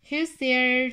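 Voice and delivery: put-on a boy calling out loud into the dark loft; hollered question. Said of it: "Tommy hollered".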